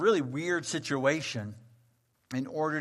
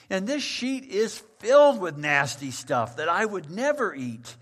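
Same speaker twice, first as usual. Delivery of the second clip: louder, higher indignant refusal; indignant protest; 4 semitones higher, 5 dB louder than usual. Acted. Peter protests to the Lord about unclean food, indignant. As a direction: protest with righteous disgust. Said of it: "the creature just flat out saying".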